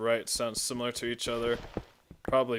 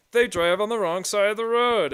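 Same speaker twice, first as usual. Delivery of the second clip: high, loud mimicry of a tired joke; mocking imitation; 9 semitones higher, 6 dB louder than usual. Mocking a joke everyone makes.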